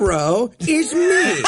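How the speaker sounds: slow, hammed-up fake Israeli accent; mock bad Israeli accent. Mocking the actor's bad Israeli accent. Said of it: "you can do an Israeli accent, right?".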